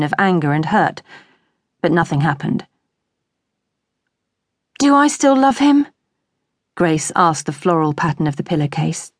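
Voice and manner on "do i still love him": high-pitched question to oneself; searching self-questioning. A narrator's reading. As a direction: wonder aloud in a raised pitch. Anguished question put to a pillow.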